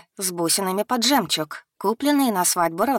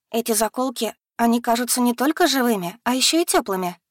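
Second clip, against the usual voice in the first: higher, lightly voiced girl; young woman, a bit higher; 6 semitones higher than usual. Yana voiced in the story.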